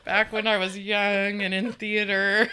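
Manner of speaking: loud laughing confession. Real, not acted. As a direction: shout it through laughter. Laughing about mime past.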